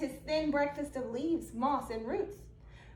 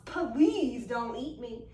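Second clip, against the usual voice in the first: mock plea; 5 semitones lower, slower than usual. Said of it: "he mocks".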